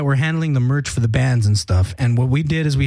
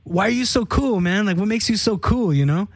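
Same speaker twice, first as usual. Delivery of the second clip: mocking taunt; 3 semitones higher than usual. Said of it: "trying to, like, mess with them".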